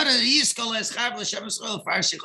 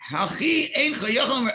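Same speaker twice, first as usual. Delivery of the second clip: retold scolding; 5 semitones higher than usual. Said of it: "Rab Nosson screamed at him".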